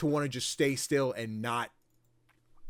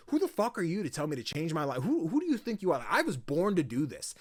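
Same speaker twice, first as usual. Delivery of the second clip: mock indignant rant, pitch jumping up; retold outrage, moderately heated; pissed off; 2 semitones higher than usual. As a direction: imitate an offended fighter snapping back. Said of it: "Alta gets pissed".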